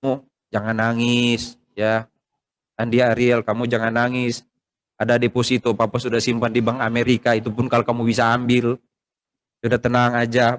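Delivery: measured, mildly subdued comforting; imitated parting reassurance. Father tells family not to cry when he dies, calm imitated reassurance. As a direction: calmly reassure the family, keeping the voice even. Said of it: "Saya sudah bilang ke Ibu Yosi".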